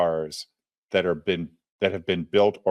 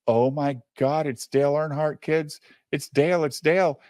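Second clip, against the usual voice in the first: mock freaking out; 4 semitones higher than usual. Dad spots Dale Earnhardt and tells his kids, freaking out. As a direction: act out a starstruck freak-out, voice lifted. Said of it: "the dad fucking freaks out".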